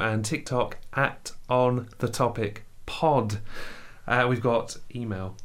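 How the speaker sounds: holding back laughter, slowed down; fighting off the giggles while reading; stifled giggles. Real, not acted. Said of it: "I'm trying not to laugh".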